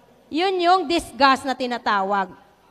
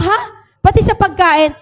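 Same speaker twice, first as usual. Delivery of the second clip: surprised; 3 semitones higher, 5 dB louder than usual. Retold or imitated. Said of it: "Sabi ko".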